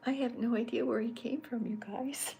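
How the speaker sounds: high, loud laughing outburst; laughing admission to viewers; amused exclamation. Real, not acted. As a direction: burst out amused at yourself. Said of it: "laughing at herself".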